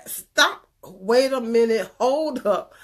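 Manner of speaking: high, loud burst on "stop"; sudden stop. Real, not acted. Urging viewers to break the cycle, loud sudden stop. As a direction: slam the brakes on the habit.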